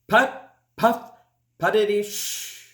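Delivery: gentle engine putter trailing to a hush; soft chuff fading into shh; soft tractor puff. Acted. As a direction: let the little engine sigh out. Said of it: "let out a long, soft".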